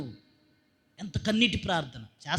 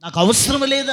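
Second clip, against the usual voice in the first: mock dismissive; 5 semitones higher, 6 dB louder than usual. Mimics dismissive listener.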